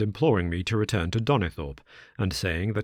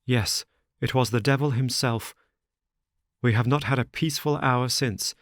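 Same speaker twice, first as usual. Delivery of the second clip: lightly voiced anxious son; a hint of a worried young friend; distressed young man; 5 semitones higher than usual.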